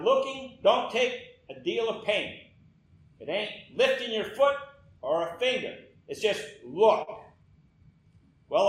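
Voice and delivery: homespun preacher, punching the key phrases; plain country lay preacher. Acted. Lay preacher to a tiny congregation, homespun exhortation. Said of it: "I remember how he said".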